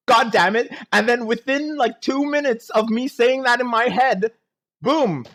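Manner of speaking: loud, high, worked-up rant; worked-up rant about a predictable twist; heated rant. Real, not acted. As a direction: vent at the screen in disbelief. Ranting about predictable plot.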